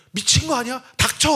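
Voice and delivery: high, loud angry shout at himself; inner scolding shout. Retold or imitated. Pastor's inner voice shouting at himself mid-confession. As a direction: yell down your own shame.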